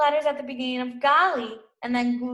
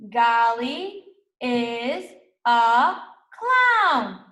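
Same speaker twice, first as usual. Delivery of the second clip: slow choral reading; 5 dB louder, much slower than usual. Shown as a demonstration. Teacher reading slowly with the class, clown lifted. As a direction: stretch it out, then pop the last word. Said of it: "Let's read it together".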